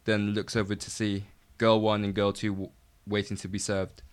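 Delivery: even, measured stage-direction reading; script read-aloud. A narrator's reading. Writer reads their script to a friend, slightly nervous read-aloud. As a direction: read out screen directions line by line.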